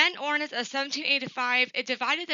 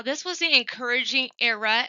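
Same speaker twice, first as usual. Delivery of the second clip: "encouraging" leaned on, a little louder; stress on encouraging; 3 dB louder than usual. Real, not acted. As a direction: give the word "encouraging" extra emphasis. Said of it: "I do emphasize the word encouraging".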